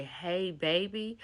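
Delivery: put-on slow, rising disbelief on 'Hey, baby'; the boyfriend repeating her words in disbelief; incredulous repeat. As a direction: drag out 'Hey, baby' as a stunned question. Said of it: "His words exactly are".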